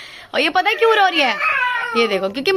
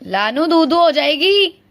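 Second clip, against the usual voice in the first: put-on baby talk; 2 semitones lower than usual. Baby talk to a little child.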